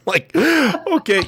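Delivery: high, slow amused laugh; kind gentle laugh. Real, not acted. Amused by silly channel slogan.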